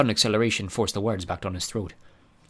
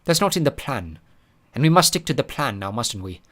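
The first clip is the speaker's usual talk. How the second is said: spooky imitation; 3 semitones higher than usual. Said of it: "spooky imitation of Artemis".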